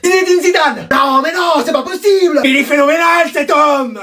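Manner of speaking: amazed excitement. Acted. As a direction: cry out in astonishment. Parents amazed by son's answers.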